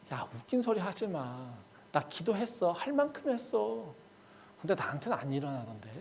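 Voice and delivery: quiet, jaded brush-off; dismissive retort. Acted. Disappointed believer answering a friend's urging, quiet dismissive retort. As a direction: drop the volume and wave it away.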